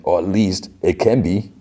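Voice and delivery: badly faked Cajun accent; Gambit. Gambit woos Rogue, terrible hammy Cajun accent. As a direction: ham up a Cajun lover's speech. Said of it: "the worst Gambit accent ever".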